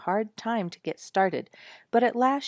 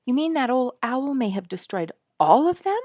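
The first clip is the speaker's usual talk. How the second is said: higher, louder anxious question; distressed; 8 semitones higher, 8 dB louder than usual. Acted. Girl fearing the owl killed the raccoons, distressed. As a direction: fear for the raccoons. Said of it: "looking much distressed".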